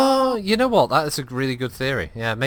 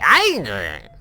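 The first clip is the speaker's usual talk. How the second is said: mock angry shout; 6 dB louder than usual. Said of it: "It just sounded like".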